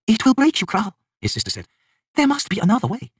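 high, pleading goddess voice; sister elder god. A narrator's reading. Sister refuses the king's deed, high and pleading.

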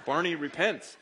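laughing. Real, not acted. Preacher laughing while joking to the congregation. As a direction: chuckle the words out. Joke about his book title.

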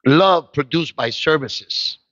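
slow, weighty preaching line; slow emphatic. Real, not acted. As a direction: lean on each word slowly.

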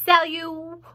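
high, loud, baffled cry; startled, stumbling exclamation. A narrator's reading. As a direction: blurt it out, puzzled. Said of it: "he cried".

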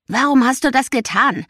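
loud, high outburst; blurted out. A narrator's reading. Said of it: "platzte es aus ihm heraus". (laut herausplatzend)

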